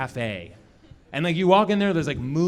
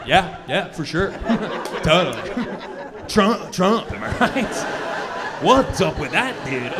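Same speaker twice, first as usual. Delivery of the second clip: nervous eager agreeing; 3 semitones higher, slower than usual. Retold or imitated.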